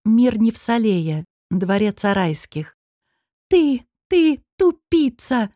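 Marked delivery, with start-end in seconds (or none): 3.5-5.5 high breathless fury; furious, choking. Acted. Furious woman screaming at her failed partner, choking with rage. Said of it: "От злости Нетали буквально задыхалась".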